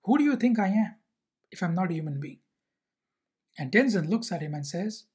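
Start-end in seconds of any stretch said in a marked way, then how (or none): 0.0-2.4 mildly raised, offended questions; a touch of hurt anger; retold angry comeback. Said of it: "Unsho gets even more angry".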